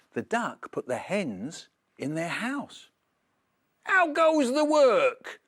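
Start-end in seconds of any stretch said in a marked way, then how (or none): 3.8-5.4 high, slow, loud bossy call; farmer calling. Acted. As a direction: bellow it down like a lazy farmer. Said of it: "called the farmer".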